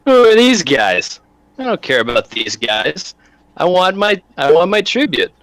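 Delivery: a touch of a hammed-up brute; angry thug. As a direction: bark it at the cowering noble. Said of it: "He goes".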